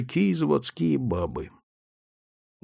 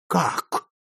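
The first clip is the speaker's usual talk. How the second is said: boiling over; 4 semitones higher than usual. Acted. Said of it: "вскипел заводчик".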